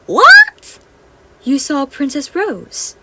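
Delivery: very high, loud shocked What; astonished. Acted. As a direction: gasp it out in disbelief. Fairies astonished.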